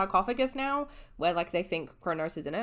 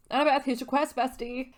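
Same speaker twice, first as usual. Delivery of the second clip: higher, louder, chummy handoff; chummy Chiron; 7 semitones higher, 4 dB louder than usual. Retold or imitated. Chiron giving Annabeth her quest, chummy. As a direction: hand over the quest like a pal. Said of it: "Chiron's like".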